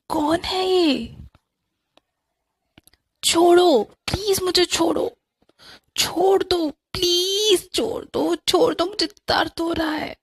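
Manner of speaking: high, crying pleas to be let go; shrill, tearful, desperate begging; terrified screaming. Acted. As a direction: scream in panic as she's grabbed. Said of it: "मैं जोर जोर से चिल्ला रही थी".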